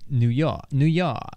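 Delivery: New York with an open Boston ah; Boston accent. Shown as a demonstration. Showing co-host the difference, Boston accent. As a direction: drop the r, Boston "New Yah". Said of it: "Boston would be like".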